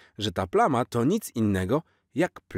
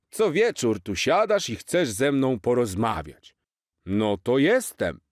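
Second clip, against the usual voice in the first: lightly voiced jolly Santa, higher; a cheerful old Santa, slightly put-on; hint of Santa; 4 semitones higher, 3 dB louder than usual. Santa to Jaś on the roof, lightly voiced jolly.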